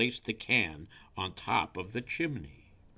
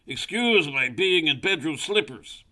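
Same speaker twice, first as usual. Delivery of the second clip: high, loud owl voice; owl character; 8 semitones higher, 8 dB louder than usual. A narrator's reading. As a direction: call it out as a genial storybook owl. Owl greets visitor, character voice.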